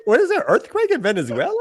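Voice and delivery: loud, high puzzled question; surprised. Retold or imitated. Retold own confusion.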